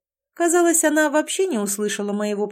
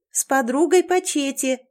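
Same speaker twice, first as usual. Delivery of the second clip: mild acted call, a bit higher; shouting back; 5 semitones higher, 3 dB louder than usual. Лана answers the girl upstairs, mildly shouting back. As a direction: call back upstairs, only half raised. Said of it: "крикнула она в ответ".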